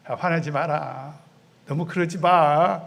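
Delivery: calm him down like a kind parent; gentle God. Acted. God gently calming angry Jonah.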